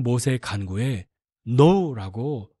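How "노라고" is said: slow, drawn-out, emphatic "노라고"; firm no. Shown as a demonstration. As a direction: lean hard on "노라고", slowly. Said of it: "분명하게, 그것도 너무 단호하게".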